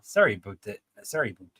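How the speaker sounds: repeated attempts at Canadian "aboot"; amateur Canadian vowels on "about"; Canadian accent. Shown as a demonstration. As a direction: rehearse a shaky-skilled Canadian accent. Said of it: "do a Canadian accent".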